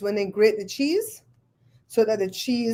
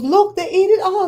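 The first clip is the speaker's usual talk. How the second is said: mimicking the cook; 10 semitones higher, 5 dB louder than usual. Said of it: "and it goes".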